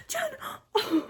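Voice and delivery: high cry of the name; emotional cry. Real, not acted. Cries out at pulling missed member.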